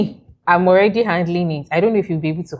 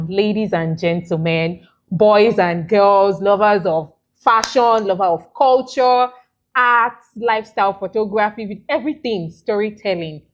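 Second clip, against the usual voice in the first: emcee announcement. Acted. Host announcing guest like emcee.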